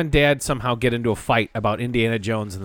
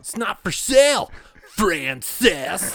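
Pee-wee impression; 6 semitones higher, much slower than usual. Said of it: "That was really good".

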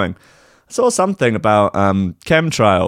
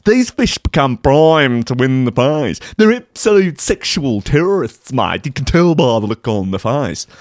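mock Aussie bloke. Podcast host mocks Australian scientist, hammed-up Aussie accent. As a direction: play the blokey Aussie official.

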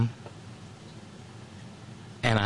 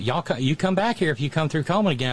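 put-on Southern accent; 2 semitones higher, faster than usual. Locals inviting a visitor back, Southern accent. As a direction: quote them in a Southern accent. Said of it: "the accent was back with a vengeance".

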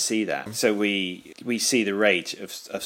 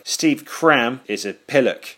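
slow Geordie mockery; 2 semitones higher, 5 dB louder, slower than usual. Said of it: "terrible impression of someone from Newcastle".

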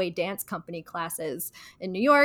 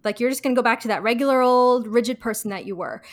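lightly voiced fake Monica, higher; mock-breezy fake Monica; 3 semitones higher, 3 dB louder, faster than usual. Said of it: "And she goes".

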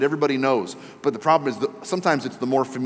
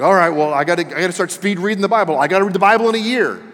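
higher, louder, fretting about a deadline; mock urgent resolve, raised voice; worked-up reader; 6 semitones higher, 6 dB louder than usual. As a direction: rush it like a panicked over-achiever. Acting out anxious speed reader.

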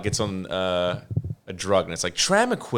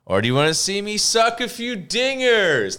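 high, louder, hammed-up offer; hammed-up ballplayer; 10 semitones higher, 4 dB louder than usual. Ballplayer offering to hit homers, high hammed-up tease. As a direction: tease the crowd like a cocky ballplayer. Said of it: "he's like".

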